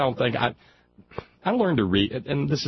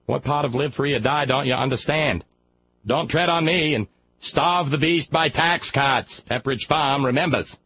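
warmed-up mock New England accent, pitched a bit higher; 5 semitones higher than usual. Retrying the protester slogan with a mock New England accent. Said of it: "with a little warm-up, it's not so bad".

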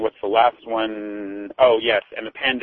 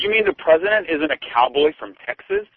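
sarcastic. Acted.

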